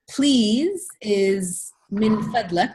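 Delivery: min fadlak said slowly, each sound clear; slow model phrase. Shown as a demonstration. Teacher reads min fadlak off the slide for the class, slowly. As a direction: draw out min fadlak for learners. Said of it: "keep moving through the slides".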